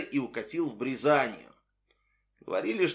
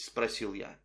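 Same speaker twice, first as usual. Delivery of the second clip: ordinary delivery, nothing marked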